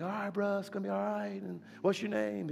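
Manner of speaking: high, awkwardly soothing voice; acted reassurance, lilting high; consoling. Consoling a crying man in the story.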